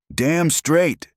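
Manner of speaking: high, loud, delighted exclamation; excited yes. Acted. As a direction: burst out with joy at her question. Eager answer to the proposal.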